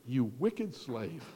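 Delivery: a touch of a stern lord, drawn out; stern rebuke. Acted. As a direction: let it land slowly like a disappointed master.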